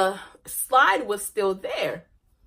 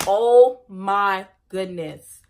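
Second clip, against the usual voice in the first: slow, louder amazed exclamation; surprised; 6 dB louder, much slower than usual. Retold or imitated. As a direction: marvel at the strike, drawn out. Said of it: "I was like".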